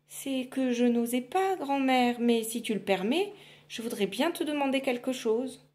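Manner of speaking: lightly voiced shy girl; timid girl. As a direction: ask shyly.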